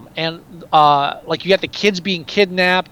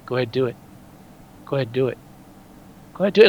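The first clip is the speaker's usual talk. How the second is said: calm; 7 semitones lower, 4 dB quieter, much faster than usual. Retold or imitated. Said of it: "but it's very calm".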